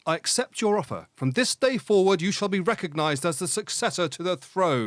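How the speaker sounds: mild American Southern Forrest Gump voice; Forrest Gump accent. Acted. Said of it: "that's Forrest Gump speaking".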